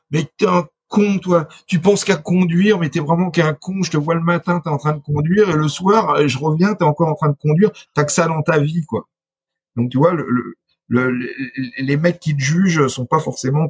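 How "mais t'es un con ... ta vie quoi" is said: higher, scornful jab at the driver; mocking insult. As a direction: sneer at him like a rude passenger. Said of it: "chauffeur de bus que tu vois". (ton moqueur et méprisant)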